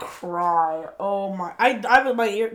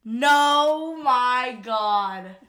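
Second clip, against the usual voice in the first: high, drawn-out real shock; stunned, on the edge of tears; overwhelmed disbelief; 4 semitones higher, much slower than usual. Real, not acted. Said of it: "I'm about to cry".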